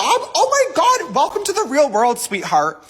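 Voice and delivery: high, slow mocking oh my God; condescending mockery. Real, not acted. James Charles mocking a fan's request, high and condescending.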